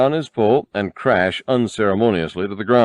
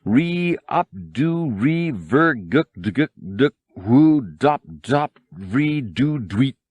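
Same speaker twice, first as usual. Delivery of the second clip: slow, high sing-song beeps and warbles; droid beeping tirade; 5 semitones higher, slower than usual. A narrator's reading. R2 rants at the golden droid in beeps. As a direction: spit out an indignant robot beep rant. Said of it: "began beeping a vehement tirade".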